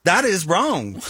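an exaggerated Southern twang on "wrong", drawn out; Southern drawl on request. Shown as a demonstration. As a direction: redo it with a bigger Southern drawl. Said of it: "hit me again".

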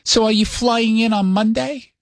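light New York-accented mom impression; mock motherly questioning, New York accent; mother's New York accent. Mother asks son about his trip, light New York accent. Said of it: "Does your mom actually have a New York accent".

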